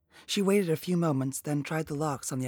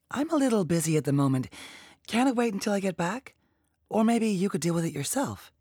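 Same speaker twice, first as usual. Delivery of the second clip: higher, louder, brisk brush-off; put-upon agent; 6 semitones higher, 5 dB louder than usual. A narrator's reading. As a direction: push the task back at the caller. Voices Ingrid brushing off a caller.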